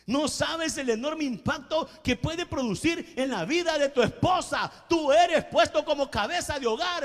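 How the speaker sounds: climbing to a shout on "esposa"; preacher's rising cry at the congregation; building preacher shout. Real, not acted. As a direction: drive the line up until you shout the last words.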